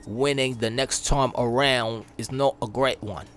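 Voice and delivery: lightly put-on British accent for Jim Ryan. Gamer reading the Sony boss's quote in a British accent. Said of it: "I gotta do it in his accent".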